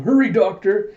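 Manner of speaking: loud, high shout for help; urgent call. Retold or imitated. Emergency, calling for the doctor.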